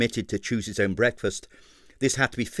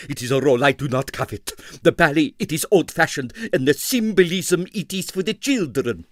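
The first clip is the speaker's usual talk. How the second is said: disdainful; 5 semitones higher, 4 dB louder than usual. Acted. Navajno disdains the role.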